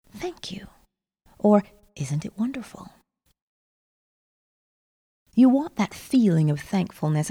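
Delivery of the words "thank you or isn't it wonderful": like a lullaby. Shown as a demonstration. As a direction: hush it like a lullaby. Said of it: "repeat like a lullaby".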